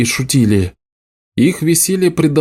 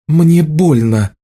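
slow, forced calm through pain; as calmly as possible; 4 semitones higher, slower than usual. A narrator's reading. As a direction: keep it level despite the hurt. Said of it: "сказала она как можно спокойнее".

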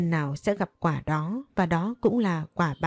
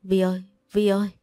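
fast hoarse call across the house; calling out loudly; faster than usual. A narrator's reading. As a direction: call her name urgently, voice straining. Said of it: "lớn tiếng gọi". (gọi lớn khản cổ, gấp gáp)

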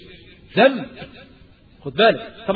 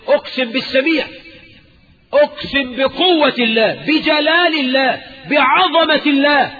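mock solemn oath; 7 semitones higher than usual. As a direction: swear it grandly, each phrase higher. Imitating someone swearing by attributes.

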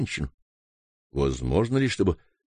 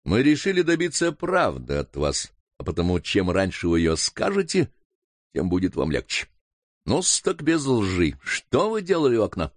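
usual speaking voice

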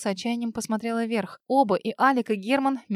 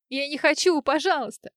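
pleading cry; 5 semitones higher, 4 dB louder than usual. A narrator's reading. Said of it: "Варя заплакала навзрыд".

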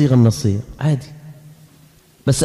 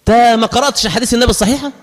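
mocking engineer; 5 semitones higher than usual. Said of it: "يقول لي".

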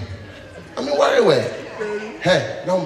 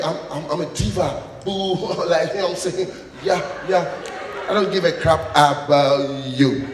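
dismissive diva; 4 semitones lower, 4 dB quieter than usual. Acted. Diva lady dismissing a man.

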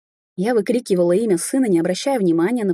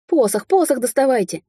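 high, urgent raccoon cry; agitated animal sidekick calling out; barked; 6 semitones higher than usual. A narrator's reading. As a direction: bark out a frantic order. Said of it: "рявкнул енот".

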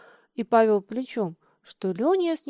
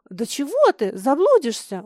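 horrified; 3 semitones higher, 7 dB louder than usual. Acted. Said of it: "ужаснулся Лёня".

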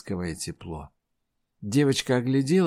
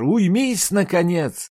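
high, loud angry yell; 8 semitones higher, 5 dB louder, slower than usual. Acted. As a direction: scream at the box to stop. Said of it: "завопила Айжар". (громкий злой крик)

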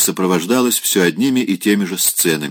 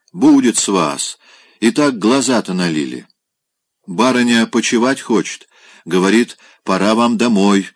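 ворчание; 3 semitones higher than usual. Acted. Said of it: "ворчала Марина".

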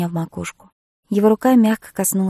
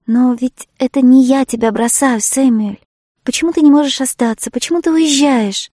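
put-on louder and higher, a pleading child's cry; capricious child; 5 semitones higher, 7 dB louder than usual. A narrator's reading. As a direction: wail it like a sulky child. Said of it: "воскликнула я, точно капризный ребёнок". (капризно, как ребёнок, громко и высоко)

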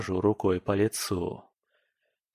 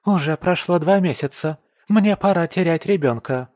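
higher, loud indignant shout; wife shouting her demand at husband; angry; 7 semitones higher, 6 dB louder than usual. Acted. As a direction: keep raging at him. Nika still flaring.

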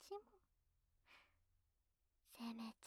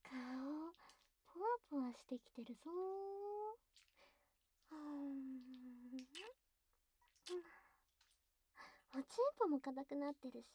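teasing pillow talk; 4 semitones higher, faster than usual. Acted. Teasing partner, playful.

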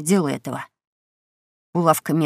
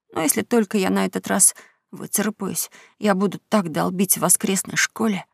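softly tearful confession; quiet sobbing; 5 dB quieter than usual. Acted. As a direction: speak through quiet sobs. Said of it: "Том тихонько всхлипывал".

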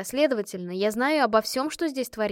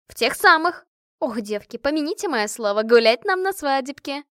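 excited; 4 semitones higher, 6 dB louder than usual. A narrator's reading. Машка excitedly predicts a wedding.

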